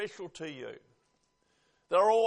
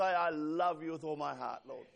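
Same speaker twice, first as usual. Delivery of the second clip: sincere; 4 semitones lower than usual. Shown as a demonstration. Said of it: "you still say".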